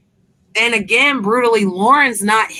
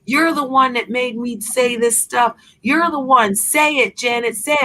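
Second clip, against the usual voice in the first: a lightly voiced demanding man, pitched higher; mock pushy demand; 5 semitones higher than usual. Retelling how he called back at night, mock pushy demand. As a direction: ape his insistent nagging, raised pitch. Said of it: "he's like".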